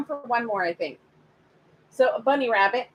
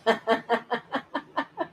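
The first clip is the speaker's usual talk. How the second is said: long run of chuckling; laugh. Real, not acted. Reader on a live reading, drawn-out laugh.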